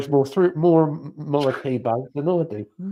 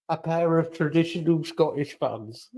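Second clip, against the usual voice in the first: nature documentary; 4 dB quieter than usual. Pretend. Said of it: "David Attenborough's voice".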